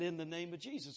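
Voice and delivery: a touch of gentleness in the prayer; lightly gentle healing prayer. Retold or imitated. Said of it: "I just very gently said".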